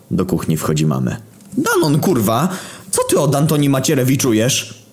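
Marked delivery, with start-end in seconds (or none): 1.6-4.8 high-pitched scolding mother; yelling mom. Acted. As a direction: shriek at your son like a furious mom. Mother bursts into the kitchen. (krzycząca matka)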